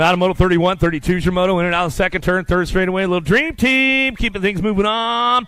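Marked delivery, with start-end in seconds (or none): 3.0-5.5 high and drawn-out, slow; excited hype. Real, not acted. Announcer hyping the little girls' heat as it starts, excited and slow. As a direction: stretch the name out with glee.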